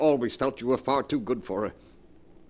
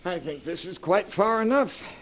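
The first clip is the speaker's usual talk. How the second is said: slow, higher, menacing relish; sinister gloating; 8 semitones higher, slower than usual. Acted. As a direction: savour every word with cruel pleasure. Villain brother alone with body.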